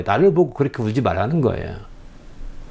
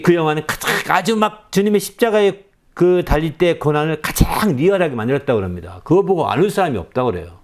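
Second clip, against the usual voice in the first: usual speaking voice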